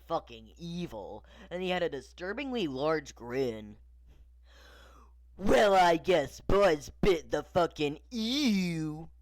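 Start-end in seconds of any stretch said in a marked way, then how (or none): 5.4-9.1 lightly voiced cowboy toy, drawn out; louder, slow character line, stretched last word; hint of a toy cowboy, taking his time; Woody. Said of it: "Woody said".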